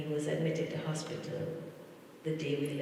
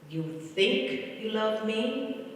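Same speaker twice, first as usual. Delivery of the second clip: higher, slow, stretched playful question; uncle's teasing question; 5 semitones higher, slower than usual. Retold or imitated. Niece repeating her uncle's slow teasing question again. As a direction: ask it slowly with a light tease. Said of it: "And he would say".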